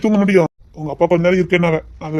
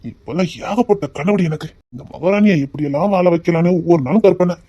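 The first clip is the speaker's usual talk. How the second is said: tender. Acted. Romantic confession to wife.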